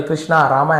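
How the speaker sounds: कृष्णा, रामा each ending in long aa; Anglicised कृष्णा, रामा with -aa endings; English-style endings. Retold or imitated. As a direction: open up the ends of कृष्णा and रामा. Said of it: "ऐसे कर देते हैं".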